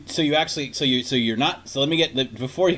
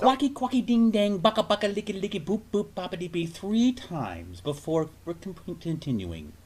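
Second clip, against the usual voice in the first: high singsong nonsense fading soft; lightly voiced mock automated system; silly phone bot; 3 semitones higher, 5 dB quieter than usual. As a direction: parody a phone menu. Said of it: "Automated system".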